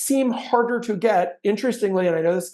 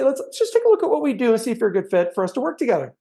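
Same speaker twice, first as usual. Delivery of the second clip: nice lilt; 4 semitones higher, faster than usual. Shown as a demonstration. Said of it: "But if I say".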